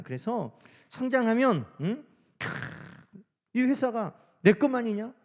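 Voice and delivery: rally the team like an eager boss. Retold or imitated. Boss rallying staff, startup pep talk.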